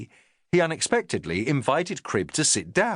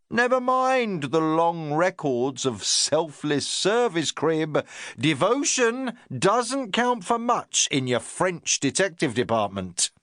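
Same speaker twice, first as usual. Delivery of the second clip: lightly voiced lecturing superior, a bit higher; a touch of a self-important inspector; the inspector talking down to his sergeant, lightly pompous; 6 semitones higher, slower than usual.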